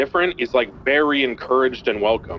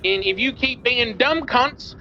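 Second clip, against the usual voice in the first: put-on Australian accent; 10 semitones higher than usual. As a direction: bark it out like an angry Australian hostage-taker. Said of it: "pretend I'm Australian".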